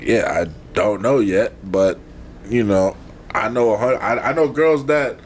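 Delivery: low, mildly calm retelling; calm repetition. Retold or imitated. Man retelling his answer to his date, calm and low. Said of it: "I repeated myself, like, calmly, verbatim".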